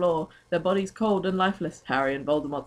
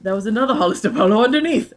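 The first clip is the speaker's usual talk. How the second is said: mock dismay; 5 semitones higher, 8 dB louder, faster than usual. Mock horror at polo.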